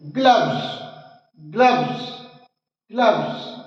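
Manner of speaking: "ग्लव्स" ending in a voiced vz; V sound. Shown as a demonstration. Teacher drills words ending in V, "ग्लव्स" with a voiced ending. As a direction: voice the v in "ग्लव्स" before the final s. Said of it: "यहाँ पर वी का sound हो रहा है".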